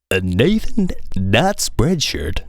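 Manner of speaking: hammed-up radio DJ, slowing on the address. Shown as a demonstration. Retrying his merch plug in a mock radio voice. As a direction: ease into the web address like a DJ. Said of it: "No, that was too, that was too high".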